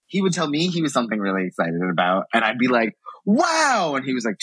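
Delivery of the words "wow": mock gush. Retold excited reaction.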